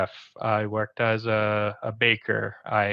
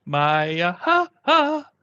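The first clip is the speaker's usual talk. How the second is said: laughing pun; 7 semitones higher, 6 dB louder, much slower than usual. Acted. Joke pun punchline, drawn out.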